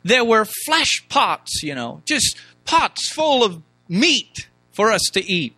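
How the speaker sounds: mock their longing for the old days; slow, hammed-up fond reminiscing; mock nostalgic gushing. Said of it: "looked back and they said".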